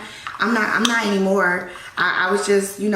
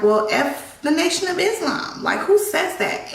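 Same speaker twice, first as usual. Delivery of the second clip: indignant retort; 10 semitones higher than usual. Retold or imitated. Snapping back at husband.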